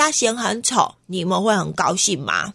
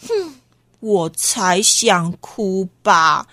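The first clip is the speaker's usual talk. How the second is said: sulky huff; 2 semitones lower, much slower than usual. Acted. Annoyed boy grumbling.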